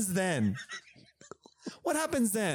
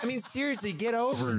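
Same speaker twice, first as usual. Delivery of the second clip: Scorpion voice; 6 semitones higher, faster than usual. Acted. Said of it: "this is what Scorpion's voice sounds like".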